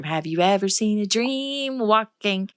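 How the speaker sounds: slow, drawn-out doting greeting; doting grandma. Retold or imitated. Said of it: "Every time one of us would enter the room".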